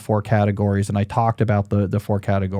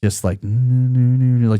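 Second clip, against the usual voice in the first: long drawn-out violin hum; hummed mock background strings; imitated violin music; much slower than usual. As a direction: mimic a slow, sustained violin line. Mimicking violin music behind him.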